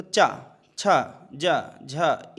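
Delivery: चा, छा, जा, झा spaced out, tongue on the palate, slowing at the end; palate consonant drill. Shown as a demonstration. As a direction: tap out चा छा जा झा on the palate. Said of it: "जोर आपके तालु पर पड़ रहा है".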